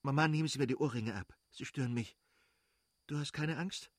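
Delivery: fast, breathless chatter; talking fast. Acted. Kitty in labour talks fast to her mother and Levin. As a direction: rush the words out. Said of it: "Sie redete rasch, ganz rasch".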